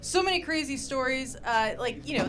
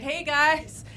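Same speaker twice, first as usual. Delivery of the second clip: bright, higher, slower friendly beggar's ask; cheery panhandler pitch; 5 semitones higher, 5 dB louder, slower than usual. Shown as a demonstration. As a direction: sell it like a charming panhandler. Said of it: "You say things like".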